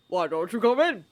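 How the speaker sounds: a hint of twinkling amusement; old wizard voice. A narrator's reading. Dumbledore's voice.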